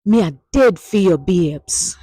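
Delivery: a touch of melodrama on "dead"; dramatic. Shown as a demonstration. Teacher showing a dramatic Patois declaration to the class. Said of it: "may seem a little bit more dramatic".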